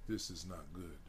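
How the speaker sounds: low, hushed warning under the breath; a quiet aside to his friend; whispered. Acted. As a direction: murmur it so no one else hears. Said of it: "George whispers".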